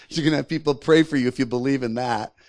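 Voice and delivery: scoffing taunt. Acted. Enemy giant mocking people's prayers, scoffing. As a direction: laugh off their faith as the bully would. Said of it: "he taunts us".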